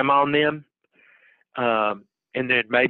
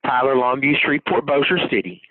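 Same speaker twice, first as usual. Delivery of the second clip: lightly hammed-up local TV announcer; mock East Texas newscaster tagline; news promo voice. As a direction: read it like a regional station ident. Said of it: "as they say on the news in East Texas".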